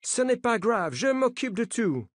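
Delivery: put-on the American coach waving off concern in an American accent. A narrator's reading. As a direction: keep the American accent, brushing it off. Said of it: "dit-il avec un accent américain".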